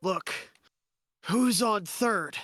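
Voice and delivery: loud, high-pitched shouting. Yelling at characters who are bickering with each other, shouting. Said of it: "I'm just going to shout and yell".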